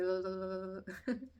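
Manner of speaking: imitated uncontrollable jaw chatter; wordless juddering noise through a shaking jaw. Mother showing how her jaw shook in labour, chattering noise. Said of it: "my jaw was like".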